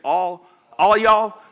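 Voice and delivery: slow, drawn-out southern "All, all y'all"; lightly put-on Southern drawl on "y'all"; southern accent. Shown as a demonstration. Preacher tries a Southern "All, all y'all" for the congregation. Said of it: "like, a southern type of way".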